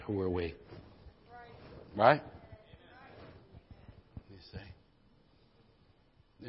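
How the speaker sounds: gentle preacher prayer; hushed earnest exhortation. Acted.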